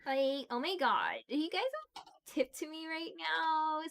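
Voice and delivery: put-on bubbly valley girl begging for tips; ditzy LA valley girl. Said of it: "I definitely can pull that shit when I want to".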